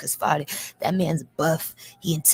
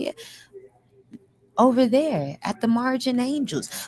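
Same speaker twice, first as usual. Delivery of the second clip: dainty, pretty, sugary-sweet delivery; 8 semitones higher than usual. Retelling what a soft-voiced inmate said: imitating a soft, pretty voice. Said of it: "Soft ass, pretty ass voice".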